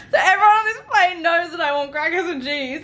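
high, laughing through words. Real, not acted. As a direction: laugh while telling it. Laughing at the memory.

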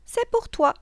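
high, loud witch voice; loud, high-pitched witch; witch offering a treat. Acted. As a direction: present it in a sing-out witch voice. Witch presents the child a cake.

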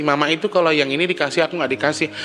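whiny child imitation. Preacher imitating a child who says mom favors the brother, mock whiny. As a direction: sulk like a jealous younger sibling. Mimicking a jealous child's complaint.

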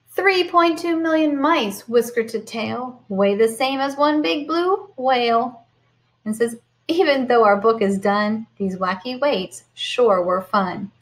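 lively storybook read-aloud; sing-song picture book voice; reading to children. Acted. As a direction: read it bright and animated for the kids.

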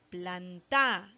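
"Planta" as plan-TA, last syllable drawn out; wrongly stressed "Planta", weight moved to the end. Shown as a demonstration. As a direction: lean on the TA in "Planta". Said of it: "si le damos la fuerza a ta".

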